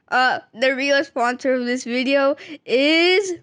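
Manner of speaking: laughing reveal. Real, not acted. Joke reveal to camera.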